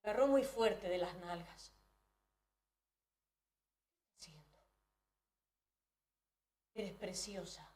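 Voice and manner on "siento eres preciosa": low murmur. Retold or imitated. Father murmuring to her.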